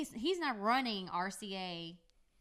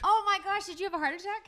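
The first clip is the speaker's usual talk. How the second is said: shocked gasp; 10 semitones higher, 7 dB louder than usual. Real, not acted. Shocked at late bride story.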